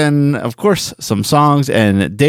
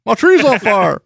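Hank Hill voice; 10 semitones higher, slower than usual. Retold or imitated. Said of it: "now that I try to do Hank Hill, I can't do it".

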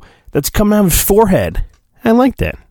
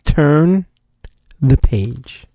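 mock Padme line; much slower than usual. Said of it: "Padme tells her husband".

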